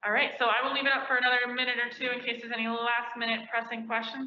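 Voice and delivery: muffled behind a face mask; through a face mask. Real, not acted. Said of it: "sorry again for the, the face shield, the face mask".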